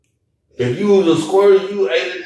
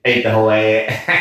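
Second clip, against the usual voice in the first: bragging; 7 semitones lower than usual. Retold or imitated. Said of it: "I just say".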